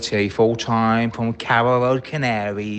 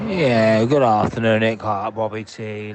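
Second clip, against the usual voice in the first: ordinary delivery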